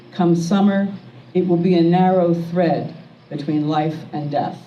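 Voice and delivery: slow, measured poem recital with pauses between lines; poetry reading. Acted. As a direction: read it as a poem, line by line, letting each image land. Poet reads own poems aloud.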